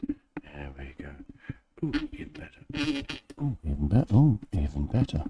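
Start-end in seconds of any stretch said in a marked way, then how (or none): 1.8-5.2 delighted. Real, not acted. Pleased with the microphone sound.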